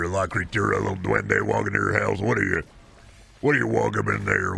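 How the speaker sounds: lightly put-on goofy chatter voice; a hint of a rambling weird viewer; mildly voiced creepy gnome pitch; chatter mental voice. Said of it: "I just like doing that voice".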